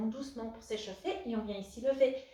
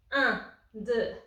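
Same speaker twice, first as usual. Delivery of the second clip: called-out count; 3 semitones higher, 9 dB louder, much slower than usual. Real, not acted. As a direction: punch the last count out to the class. Coach counting the last rep.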